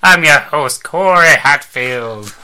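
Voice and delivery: big, loud vintage radio announcer; old-timey radio voice. Acted. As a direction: boom it out like a 1940s radio host. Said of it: "That's an old-timey radio voice".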